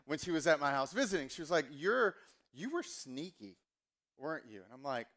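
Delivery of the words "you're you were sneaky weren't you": a hint of his mom's Southern accent. Mom catching her son out, in a light Southern accent. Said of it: "every time I do my mom's accent".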